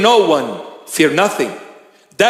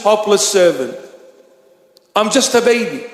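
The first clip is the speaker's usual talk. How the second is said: raised, earnest pleading prayer to the Lord; humble prayer; 4 semitones higher than usual. Retold or imitated. A bishop praying humbly before his Lord, earnest pleading. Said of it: "go back to him and say".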